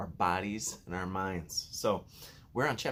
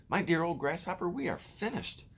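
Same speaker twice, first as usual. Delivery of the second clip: high, wailing prophet of doom; gloomy earthworm; 9 semitones higher than usual. A narrator's reading. Gloomy earthworm wails to the grasshopper. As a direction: moan it like the world is ending.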